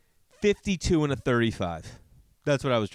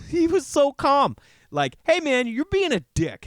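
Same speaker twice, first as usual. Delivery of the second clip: laughing; 13 semitones higher, 5 dB louder than usual. Retold or imitated. Laughing, imitating driver.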